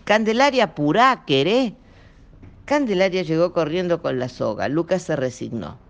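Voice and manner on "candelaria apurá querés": louder urgent call. A narrator's reading. Nazareno calling to hurry his wife, loud. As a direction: hurry her up.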